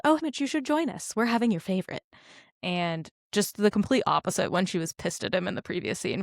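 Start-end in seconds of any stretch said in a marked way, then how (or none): 0.0-2.0 sugary high-pitched Effie imitation; a touch of Effie's fake sweetness. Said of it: "Haymitch, she says".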